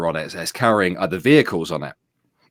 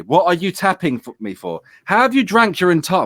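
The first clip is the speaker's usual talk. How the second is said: surprised; 9 semitones higher than usual. Real, not acted. Reacts to child offscreen.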